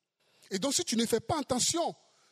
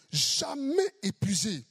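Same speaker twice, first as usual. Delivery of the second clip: Jamais épuisé, slowed right down and weighed; slow emphatic repeat; slower than usual. Shown as a demonstration. Preacher repeating to the congregation, slow and weighty. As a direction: lean on Jamais épuisé slowly. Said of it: "Il n'est jamais épuisé".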